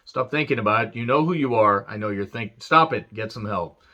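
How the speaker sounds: lightly voiced Rock teasing Stasiak; mock Rock promo aimed at Stasiak and Stacy. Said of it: "The Rock's like".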